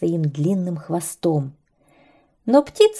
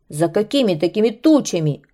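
angry; faster than usual. Acted. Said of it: "разозлился змей".

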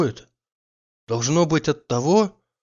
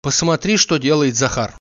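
complaining; 4 dB louder than usual. Acted. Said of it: "пожаловался он ей".

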